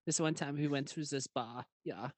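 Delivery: giggly German-accented retelling; mock German accent. Shown as a demonstration. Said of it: "I'll read in the German accent".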